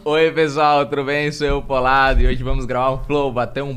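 loud, bright channel greeting; loud youtuber intro. Shown as a demonstration. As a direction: open the video like a youtuber. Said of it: "faltou o Eu Sou Polado".

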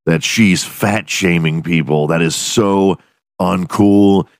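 lightly voiced prissy actress, slow; a hint of a prim blonde actress, drawn out; mock actress. Mocking a stick-thin actress who wants her cancelled, prim slow voice. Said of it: "stick-thin blonde actress come out and go".

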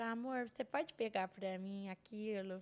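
slow lisping sweetheart voice; tongue-tied couple baby talk. Shown as a demonstration. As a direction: ask your partner slowly, with a babyish lisp. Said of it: "A gente faz com a língua presa".

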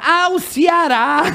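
high, very drawn-out exclamation; imitated delighted recognition. Waxer recognises her supposed client, imitated delighted cry. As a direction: act out the penny dropping, high and slow.

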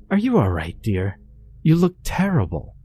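high, sweet voice, too sweet to be real; eerie cooing wife. A narrator's reading. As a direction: coo like a monster pretending to care. Monster wife cooing eerily.

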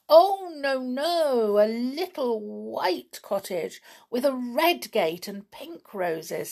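pixie. Acted. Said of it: "said Patter, the second pixie".

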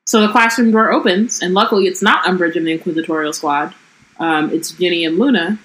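lightly voiced book reading of Ron and Hermione; story reading. A narrator's reading. Podcaster reading the book passage to her co-host, lightly voiced. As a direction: read the quarrel out, evenly.

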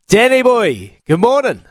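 big cheery hello; hearty greeting. Real, not acted. Host greets guest on air.

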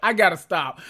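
real laughter breaking into the words; laughing at self. Real, not acted. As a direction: laugh through it, cracking yourself up. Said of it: "No, I be tickling me".

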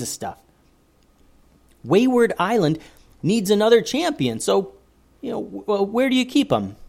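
put-on high eager boy; lightly voiced young boy. A narrator's reading. Joseph explaining to the leader, high and eager.

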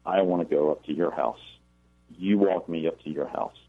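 put-on cold, even, monotone boy's voice. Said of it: "says in this very cold, monotone voice".

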